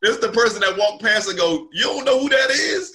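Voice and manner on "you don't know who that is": incredulous shout. Retold or imitated. Retold bystander calling out.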